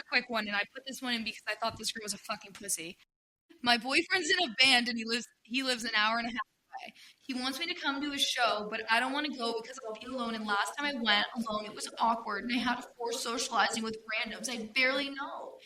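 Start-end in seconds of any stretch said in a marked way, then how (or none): 3.6-15.6 put-on whiny baby voice. Shown as a demonstration. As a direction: read it like a whining toddler. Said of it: "You can't get the whiny baby voice".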